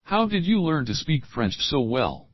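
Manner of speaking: slow, careful full question; "how did you learn" said slowly in the full sentence; slow model sentence. Shown as a demonstration. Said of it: "chunk then full sentence".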